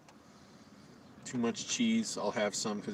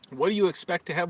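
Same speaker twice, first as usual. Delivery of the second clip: exasperated; 7 semitones higher, 6 dB louder than usual. Retold or imitated. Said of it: "I'm like".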